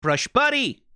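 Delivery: silly high-pitched shout; squeaky cheer. Pretend. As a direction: squeal it like a cartoon. Squeaky exclamation.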